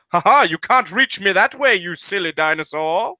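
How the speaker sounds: put-on taunting British accent; mock your foe as a smug Brit; big British guy. British mech pilot holds dinosaur at arm's length, taunting British accent. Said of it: "it's a big British guy".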